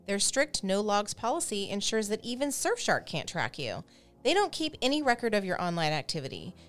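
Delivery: scripted sponsor read; polished host-read advertisement; podcast ad read. Acted. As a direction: read the sponsor copy clearly and evenly. Reads the sponsor ad.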